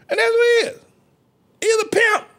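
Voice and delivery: very high falsetto insistence; piercingly high preacher cry; high-pitched squeal. Real, not acted. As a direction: squeal the verdict out. Preacher repeats his verdict, squealing.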